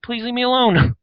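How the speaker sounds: dismissive. Retold or imitated. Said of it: "And it's just like".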